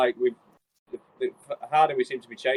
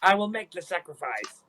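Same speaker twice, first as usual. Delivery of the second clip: slow, high, grand declaration; volunteer like a self-sacrificing hero, hammed-up; mock-heroic; 6 semitones higher, slower than usual. Player offering Siegfried to go out front, mock-heroic.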